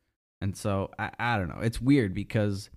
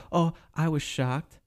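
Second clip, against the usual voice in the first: higher, mock-dramatic shocked politician; mocking Warren; 5 semitones higher than usual. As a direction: ham up her outrage, pitched up. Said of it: "Warren just answers the question".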